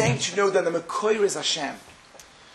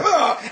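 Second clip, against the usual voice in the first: higher open-throated "ah"; imitated gag; 10 semitones higher, 5 dB louder than usual. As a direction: mime a throat swab with a quick "ah". Imitates gagging at throat swab.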